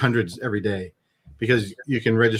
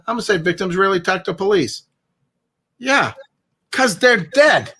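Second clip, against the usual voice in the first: Jay Leno; 7 semitones higher than usual. Acted. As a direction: spell out the joke like Leno. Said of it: "This is my version of Jay Leno".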